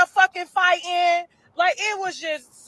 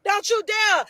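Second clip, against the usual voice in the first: scolding. Retold or imitated. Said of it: "And I told her".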